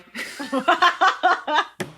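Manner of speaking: loud high laugh; real burst of laughter. Real, not acted. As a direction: crack up at your own bit. Cracking up at own robot bit.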